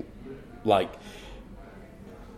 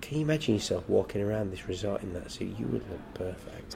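soft seductive coaxing; 7 dB quieter than usual. Retold or imitated. Saleswoman coaxing him into the suit, soft and quieter. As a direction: purr it like a saleswoman talking him into it. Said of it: "and she'd say".

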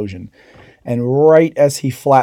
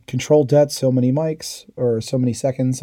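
mock yell. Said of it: "he yells out".

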